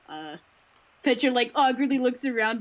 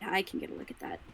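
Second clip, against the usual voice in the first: soft, half-whispered and eager; soft perked-up voice; 9 dB quieter than usual. Acted. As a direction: quietly brighten at the idea. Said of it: "Petra perks up".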